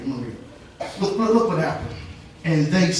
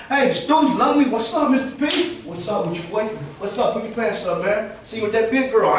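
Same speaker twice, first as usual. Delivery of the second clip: greeting students; 4 semitones higher than usual. Retold or imitated. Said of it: "that's how I talk to 'em".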